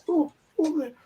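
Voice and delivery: a rattled woman breaking bad news; flustered friend. Friend relays the fake embassy call.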